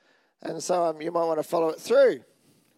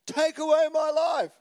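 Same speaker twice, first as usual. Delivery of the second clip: higher, slow hammed-up despair; desperate Jonah; 8 semitones higher than usual. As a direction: draw it out like a melodramatic plea. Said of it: "This is how upset he was".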